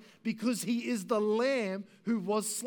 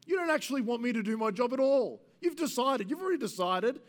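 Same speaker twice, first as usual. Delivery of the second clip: mounting indignation, pitch lifting into raised-voice protest; acted exasperated accusation, higher and emphatic; indignant Pilate; 3 semitones higher than usual. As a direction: argue back like an affronted judge. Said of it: "I think Pilate's indignant at them".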